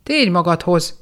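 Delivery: worried friends yelling at the entranced goblin; shouting. Acted. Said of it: "kiáltottak rá a tippantók".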